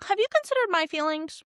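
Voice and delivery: hammed-up hurt younger brother; whiny brother. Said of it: "Daemon is like".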